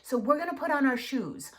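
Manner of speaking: kneel down and explain clearly to a little one; specific and calm. Shown as a demonstration. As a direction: parent at child's level giving specific instructions, gently. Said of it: "get down on their level".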